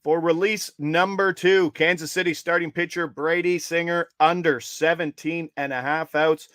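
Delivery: measured announcer call, key words stretched; spaced-out, emphatic official call; bet announcement. Real, not acted. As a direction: announce it deliberately so followers catch it.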